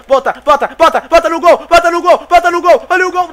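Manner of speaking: urgent urging. Real, not acted. Urging a shot on goal.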